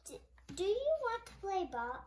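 bright eager neighbor voice. Acted. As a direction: invite him out to play. Neighbors asking Jeremy.

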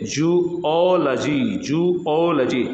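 slow जूओलॉजी, split as joo + o-lo-jee; demonstrated pronunciation. Shown as a demonstration. Teacher breaks the word up, slow careful जूओलॉजी. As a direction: stretch जूओलॉजी out part by part. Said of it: "जू का और फिर ओलॉजी".

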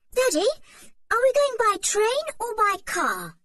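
put-on high, loud boyish question; quickly change the subject; eager boy. A narrator's reading. Dick asks Daddy about the trip, high and eager.

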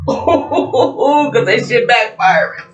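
slow words through laughter; gloating laugh while talking. Real, not acted. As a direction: laugh it out, savoring it. Laughing at karma backfiring.

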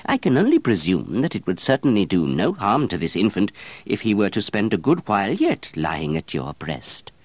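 a flustered, evasive monk; fussy monk voice. Acted.

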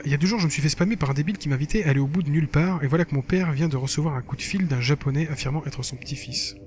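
lively reading of a blog entry; lightly performed text narration; diary read-aloud. Acted. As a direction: read it out like a casual teen diary. Reads game diary aloud.

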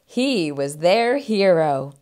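measured storybook ending; expressive picture-book narrator; children's story narration. A narrator's reading.

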